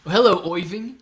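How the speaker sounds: "Oiving" with "oy" for "Ir"; pronunciation shown. Shown as a demonstration. Streamer playfully greeting Irving, exaggerated vowel. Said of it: "It's pronounced Oiving".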